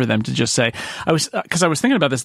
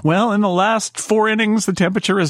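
TV baseball announcer; 4 semitones higher than usual. Retold or imitated. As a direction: lightly play the TV announcer. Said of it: "And then they say".

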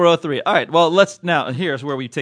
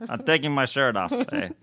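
put-on a light Canadian "eh" accent, hosers joking; mock Canadian accent; 2 semitones lower than usual. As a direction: tease in a hammed-up Canadian accent. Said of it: "Mackenzie Brothers".

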